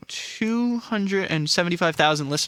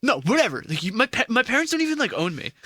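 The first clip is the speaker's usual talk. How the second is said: put-on high, bored valley girl whine; 8 semitones higher than usual. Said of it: "to a Valley Girl impression".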